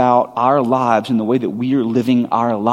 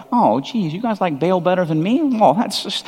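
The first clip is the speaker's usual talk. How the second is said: a hammed-up sulky whine, rising higher; mock pouting; 5 semitones higher than usual. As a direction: play a hurt, petty God. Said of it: "He's not pouting that like".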